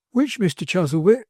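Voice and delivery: lightly voiced old nurse scolding; a hint of a scolding old woman; Mrs Gamp scolding. A narrator's reading. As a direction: tell the barber off, indignant. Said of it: "she said".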